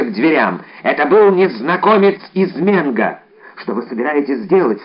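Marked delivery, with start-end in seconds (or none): none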